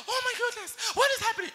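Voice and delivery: very high squeal of alarm; mock panic. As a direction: imitate a crowd panicking at the trumpet. Acts everybody alarmed at final trumpet.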